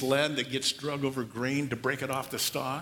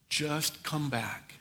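gentle plea; 3 dB quieter, much slower than usual. Pretend. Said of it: "the look was".

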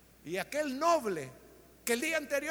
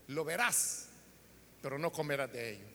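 prophet's warning; 11 semitones lower, 5 dB quieter than usual. Retold or imitated. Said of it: "Lo que el profeta le dijo".

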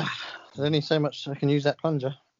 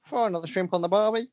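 put-on slipping, half-hearted Australian accent; a pop singer; 4 semitones higher than usual. Host retrying the singer impression after losing it, shaky-accented mock Australian. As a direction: try the Aussie cliché as the accent slips. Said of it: "It's totally gone".

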